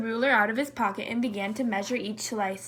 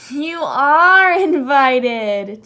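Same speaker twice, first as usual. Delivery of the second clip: chuckling; 8 dB louder, much slower than usual. Acted. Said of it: "chuckled Zebra".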